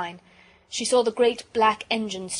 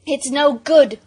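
loud, higher, despairing call; desperate cry; 6 semitones higher, 11 dB louder, slower than usual. A narrator's reading. Bobby as the train keeps coming, desperate.

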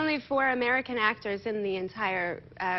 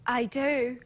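Scottish accent. Shown as a demonstration. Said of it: "No, that wasn't English".

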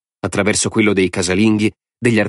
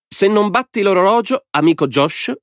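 high, gleeful madman's voice; a mad lord savouring the game; Lord Alvin; 14 semitones higher than usual. A narrator's reading. (voce alta di signore folle e allegro)

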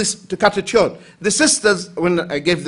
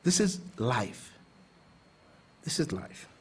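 soft resigned sigh; 7 semitones lower, 15 dB quieter than usual. Real, not acted. Resigned reflection.

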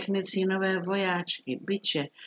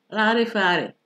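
louder, higher scoffing exclamation; crying out; 4 semitones higher, 5 dB louder than usual. A narrator's reading. Soldier rejecting the witch's answer, crying out. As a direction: burst out, dismissing the excuse. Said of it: "vzkřikl voják".

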